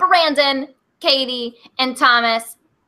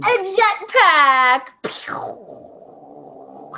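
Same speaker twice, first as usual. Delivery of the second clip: jetpack noise; 2 semitones higher, much slower than usual. Pretend. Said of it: "I have to press the button".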